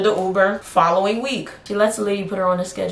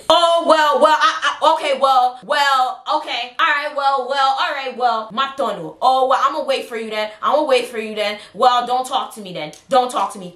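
sulky mother; 5 semitones higher than usual. Retold or imitated. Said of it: "this lady starts going off on me".

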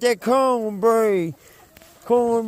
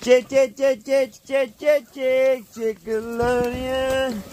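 calling chickens; 3 semitones higher than usual. Real, not acted. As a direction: call the flock over, chanting.

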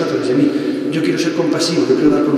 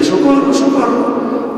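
high, slow drawn-out calls for help; cries for help; 9 semitones higher, much slower than usual. Retold or imitated. Drowning crowd crying high and slow for help. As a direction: wail it like distant drowning voices. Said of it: "los gritos de la gente".

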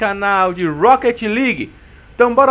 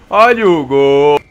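louder, slow drawn-out call; goal call; 4 semitones lower, 6 dB louder, slower than usual. Real, not acted. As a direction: stretch it out for the goal. Calling out the goal.

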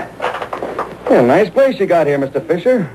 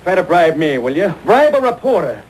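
angry outburst; 5 semitones higher than usual. Acted. Reporter storms out after bribe.

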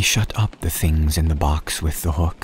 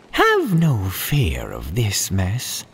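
jolly cat voice; 2 semitones higher, slower than usual. Acted. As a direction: reassure with a big showman's grin. Cat returns reassuring.

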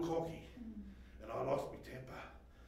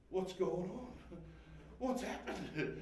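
dazed quiet; 6 dB quieter, slower than usual. Retold or imitated. Snapping out after a rage.

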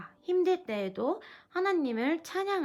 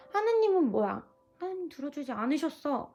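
grumbling complaint; 5 semitones higher, 3 dB louder than usual. Acted. Child grumbling at God.

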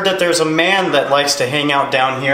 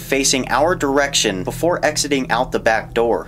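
measured voiceover storytelling; documentary narration. Acted. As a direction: narrate the footage calmly.

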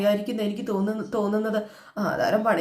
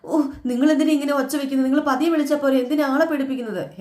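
raised, sharp complaint at the husband; irritated scolding; 4 semitones higher than usual. Retold or imitated. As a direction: snap back at him for startling you. Wife scolds husband for shouting.

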